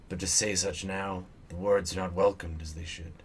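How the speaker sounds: measured read-aloud narration; story narration. Acted. Player reading Durrance's lore from the screen, story narration.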